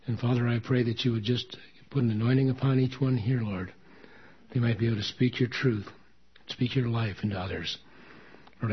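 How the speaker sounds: steady, heartfelt praying voice; earnest prayer. Acted. Pastor praying over the congregation, in an earnest prayer voice. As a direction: pray over the congregation, calm and sincere.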